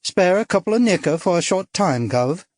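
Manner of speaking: a light cockney streetwalker put-on; mock cockney come-on to a gent; lightly done cockney accent; cockney tart. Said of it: "Her voice turned at once cockney and sluttish".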